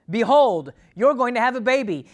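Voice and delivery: loud angelic proclamation; Gabriel. Acted. Angel announcing a baby to Mary, loud proclamation. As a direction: announce it high and forcefully, like a herald. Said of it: "exactly how Gabriel spoke to her".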